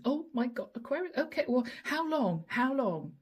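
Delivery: lightly acted flustered boss; a touch of panic, firing off questions; mildly panicked. Boss hearing about an employee's holiday, mildly panic-stricken. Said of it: "your boss looking a bit panic-stricken".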